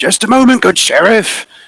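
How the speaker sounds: very high, loud, hasty hurried cry. Narrator tells a story, voicing a character answering the sheriff: Mr. Tubbs crying out. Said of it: "cries Mr".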